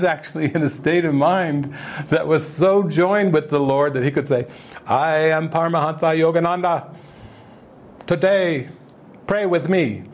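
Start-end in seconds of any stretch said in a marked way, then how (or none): 4.9-10.0 lightly voiced lofty guru; a hint of a solemn holy man inviting prayer; imitating Yogananda. Teacher mimics the guru to his audience, lightly solemn. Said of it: "he would speak like that".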